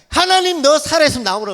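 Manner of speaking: loud, high yell challenging God; retold angry shout. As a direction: re-enact shouting at God to come out. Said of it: "소리 질러서 뭐라고요?".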